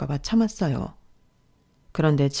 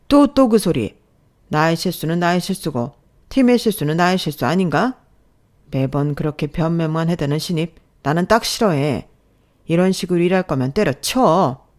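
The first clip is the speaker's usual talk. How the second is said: loud, exasperated rebuke; angry boss; 4 dB louder than usual. Acted. Boss cuts off her excuse, loud angry rebuke.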